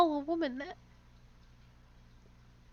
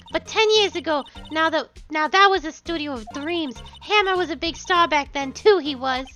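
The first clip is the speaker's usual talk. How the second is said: put-on old woman voice. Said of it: "I have to do an old woman voice".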